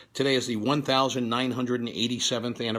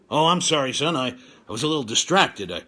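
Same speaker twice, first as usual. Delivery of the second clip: a lightly voiced booming God, absent-minded; mild mock God voice, distracted dad; God impression; 3 dB louder than usual. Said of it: "My impression of God".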